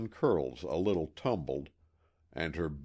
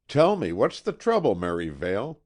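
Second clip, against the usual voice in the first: higher, louder pressing question; urgent plea; 3 semitones higher, 7 dB louder than usual. A narrator's reading. The suitor presses the servant Merivale for the truth, urgently. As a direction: push him for an answer. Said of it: "I urged".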